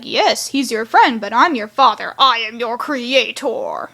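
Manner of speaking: stern father. Retold or imitated. Clips answering Six coldly.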